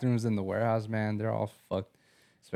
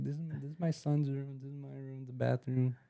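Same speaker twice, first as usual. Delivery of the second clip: proud mom tour; 5 semitones higher, 7 dB quieter than usual. Retold or imitated. Mom giving house tour.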